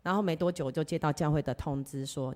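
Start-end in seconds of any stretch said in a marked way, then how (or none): none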